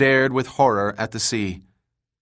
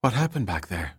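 dazed; 5 dB quieter than usual. Acted. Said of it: "a dazed look in her eyes".

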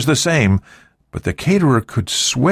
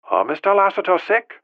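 put-on Cantonese accent, high and light; 12 semitones higher than usual. A narrator's reading. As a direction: answer the phone in a Cantonese accent. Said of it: "a voice with a Cantonese accent".

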